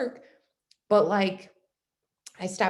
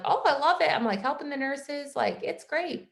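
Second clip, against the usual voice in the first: gushing happiness; 6 semitones higher than usual. Retold or imitated. Gushing to mentor about work.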